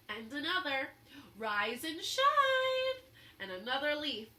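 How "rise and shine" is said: much higher, louder urgent yells; yelling at leaves. A narrator's reading. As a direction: rouse the sleeping leaf. Camilla yelling at a leaf.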